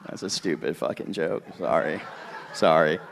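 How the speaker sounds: mumbling, stoned and low; spaced out. Real, not acted. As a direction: drift off, high and quiet. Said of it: "I'm a little high right now".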